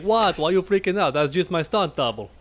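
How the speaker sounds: Jean-Claude Van Damme. Acted. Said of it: "I was trying to do his".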